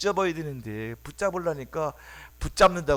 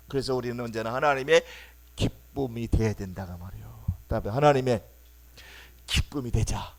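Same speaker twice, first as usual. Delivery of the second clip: ordinary delivery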